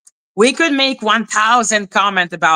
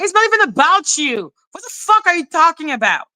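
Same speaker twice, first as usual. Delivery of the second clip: retold exasperation; 8 semitones higher than usual. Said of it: "Because I'm like".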